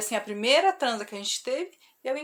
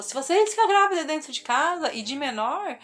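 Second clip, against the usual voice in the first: retold parental warning, raised in pitch; higher, firm mock threat, quoting a parent; scare-the-kids threat; 5 semitones higher, 3 dB louder than usual. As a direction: imitate mother threatening the children. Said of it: "pra assustar a gente".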